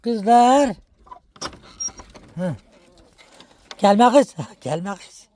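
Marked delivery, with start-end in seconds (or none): 3.8-4.3 sharp, louder call to shoo the hen off. Real, not acted. Woman shooing her hen away, sharp loud call. 4.5-5.3 laughing it softly. Real, not acted. Woman laughing at her hen, soft laughing voice.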